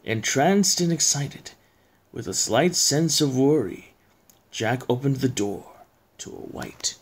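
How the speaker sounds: measured poem reading with pauses; storyteller reading verse; story narration. A narrator's reading. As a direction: recite it like a spooky bedtime tale.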